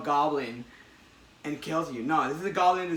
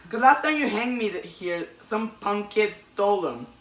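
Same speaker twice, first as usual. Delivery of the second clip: higher, louder petty crook voice; whiny robber; 6 semitones higher, 4 dB louder than usual. Retold or imitated. Robber begging Spider-Man about his stolen shoes, high and whiny. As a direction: wheedle like a small-time crook.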